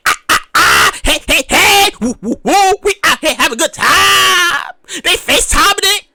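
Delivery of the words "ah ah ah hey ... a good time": partying crowd. Retold or imitated. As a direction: act the partiers yelling woo. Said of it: "They're like".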